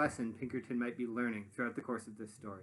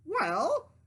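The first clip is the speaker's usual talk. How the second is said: impatient question; 13 semitones higher, 7 dB louder than usual. Acted. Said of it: "he asked".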